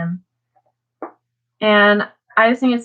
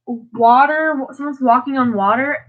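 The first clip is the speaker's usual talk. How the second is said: imitated shock; 4 semitones higher than usual. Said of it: "'cause I'd be like".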